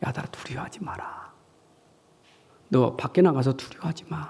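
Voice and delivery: soft, breathy whispering. Speaker acts out words whispered to the disciples, whispering. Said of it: "제자들에게 귓속말로".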